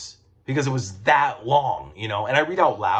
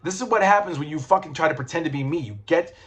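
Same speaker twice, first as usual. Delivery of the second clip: mock angry Matt; 4 semitones higher than usual. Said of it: "but he's also pissed off".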